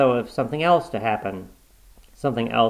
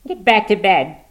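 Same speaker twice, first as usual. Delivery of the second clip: high, loud, unsettled order; agitated old husband; unsteady; 10 semitones higher, 6 dB louder than usual. A narrator's reading. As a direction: order her back while losing composure. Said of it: "he said unsteadily".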